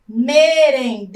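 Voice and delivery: "Merendeiras" loudly split into syllables. Shown as a demonstration. Teacher introducing a word to count, syllable by syllable. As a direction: stretch each syllable of "Merendeiras". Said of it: "Então, vamos contar".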